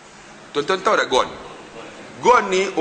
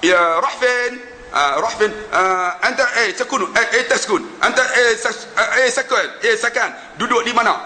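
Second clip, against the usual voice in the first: halting colloquial Arabic full of hesitations; stumbling Arabic; 3 semitones higher than usual. Retold or imitated. Preacher mimics a clumsy Arab chat, halting and amused. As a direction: fumble through everyday Arabic, laughing. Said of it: "Tu Arab".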